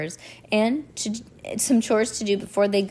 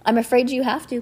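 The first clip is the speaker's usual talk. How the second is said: Count Olaf; 5 semitones higher, 4 dB louder, faster than usual. A narrator's reading. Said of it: "Count Olaf replied".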